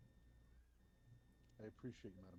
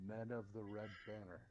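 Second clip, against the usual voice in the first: somewhat raised, hearty voice to a crowd; loud, robust call; 5 dB louder than usual. Acted. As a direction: call out robustly so the whole bar hears. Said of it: "in a very loud, robust voice".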